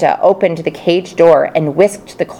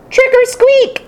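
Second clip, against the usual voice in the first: hamster shout. Acted. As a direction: shout it like a tiny ghost. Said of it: "began to shout like I've never shouted before".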